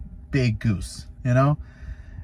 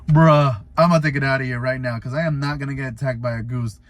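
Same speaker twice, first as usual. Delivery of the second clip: louder, higher and fast, ready to flee; hurried panicky retreat; panicked bail-out; 3 semitones higher, 5 dB louder than usual. Retold or imitated. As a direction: blurt it out like you're about to run. Panicking as goose approaches.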